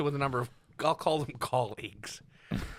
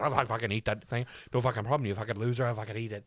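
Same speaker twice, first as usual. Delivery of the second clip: Suede, garbled ranting; 2 semitones lower than usual. Retold or imitated. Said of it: "can you translate what you just said?".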